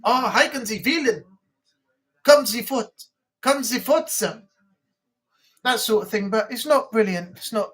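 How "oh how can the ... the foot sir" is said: a bit of mock German accent; rough German accent. Shown as a demonstration. Trying a bit of the accent, rough German accent. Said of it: "I can do a bit of the accent".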